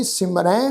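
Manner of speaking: ਸਿਮਰੈ with a nasalized final "ai"; nasal ending. Shown as a demonstration. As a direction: let the last vowel of ਸਿਮਰੈ ring through the nose. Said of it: "ਨਾਸਕੀ tone ਦੇ ਵਿੱਚ ਪਾਠ ਉਚਾਰਨ". (ਸਿਮਰੈ ਦਾ ਅੰਤ ਨਾਸਕੀ tone ਵਿੱਚ)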